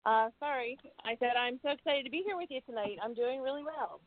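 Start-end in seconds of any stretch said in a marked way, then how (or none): 1.0-3.0 a bit louder, faster, for clarity; repeated louder. Real, not acted. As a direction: repeat it so the host hears. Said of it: "I'm sorry, I didn't hear you".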